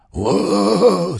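loud, high startled roar-scream; a dragon startled by Zoe screams back, loud and high. Acted. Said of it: "screamed the dragon".

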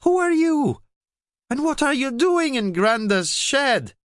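put-on high, loud, alarmed girl's voice; little girl startled by a dragon; startled child. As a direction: demand answers in a fright.

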